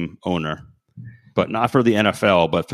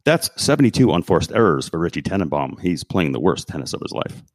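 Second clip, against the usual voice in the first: sportscaster voice; 3 semitones lower than usual. Shown as a demonstration. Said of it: "this is my sportscaster voice".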